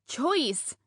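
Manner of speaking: muffled sharp call through a hand; barked through hand. Acted. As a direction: bark the name through covered mouth. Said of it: "I bark through my hand".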